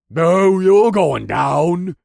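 loud, high, drawn-out fighter's threat; angry growl. A narrator's reading. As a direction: growl it as a furious challenge. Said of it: "he growled".

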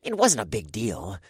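scoffing. Acted. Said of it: "the first voice scoffed".

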